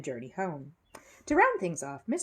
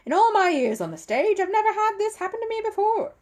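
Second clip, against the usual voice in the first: high, loud exasperated magician; a cross showman biting out each word; furious but keeping it down for the audience; hissed; 9 dB louder than usual. Acted. Magician complains through the act.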